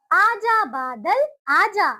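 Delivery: slow, sing-song recital; slow nursery rhyme recital; poem for children. Shown as a demonstration. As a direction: recite the rhyme slowly for little ones.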